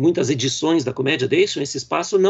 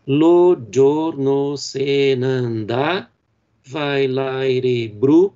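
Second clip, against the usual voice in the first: very slow, weighted reading of the verse; leitura do verso; much slower than usual. Shown as a demonstration. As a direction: dwell on each syllable of the line. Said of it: "como nós temos aqui nesse exemplo". (leitura muito lenta do verso de Dante, marcando as sílabas)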